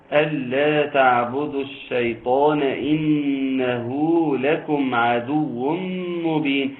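slow, melodic tajweed chant; teacher chanting the verse with full elongations; Quranic recitation. Acted. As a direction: draw each vowel out in a measured chant.

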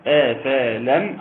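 أفلم slow, each a-vowel clear: a-fa-lam; spelling out أفلم as a question for the students; three fathas. Shown as a demonstration. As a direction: stretch أفلم so all three fathas sound. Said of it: "ثلاث فتحات ورا بعض".

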